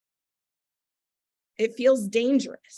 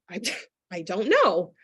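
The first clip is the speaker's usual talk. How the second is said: small embarrassed laugh through the words; sheepish laugh; 2 semitones lower than usual. Retold or imitated. Answering her husband's question with a sheepish laugh. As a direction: laugh it off, caught out. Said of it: "And I said".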